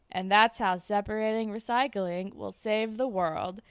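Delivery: flat monotone, deadpan "Hooray". Retold or imitated. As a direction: read it bored and flat. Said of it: "in a very monotone voice saying".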